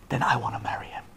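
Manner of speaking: soft, low, near-whispered yes; breath-light, tender answer; hushed acceptance. Acted. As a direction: accept very quietly. Bride accepts in a hush.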